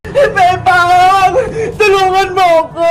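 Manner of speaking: wailing call for help; crying. Acted. Child calls her friend Bebang for help, crying. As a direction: cry out tearfully to a friend. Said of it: "Bakit ka umiiyak?".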